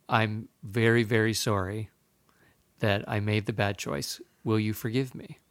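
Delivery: mild contrite apology. Retold or imitated. Father asking young son's forgiveness, gently contrite. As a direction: ask forgiveness gently and simply.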